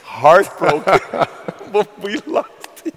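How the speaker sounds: drawn-out, loud mock heartbreak; sarcastic. Host teasing guest about a team's trade, sarcastic. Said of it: "I think he got the sarcasm".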